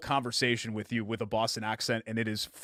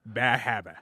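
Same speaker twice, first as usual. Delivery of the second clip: Boston accent. Shown as a demonstration. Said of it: "is how you say it".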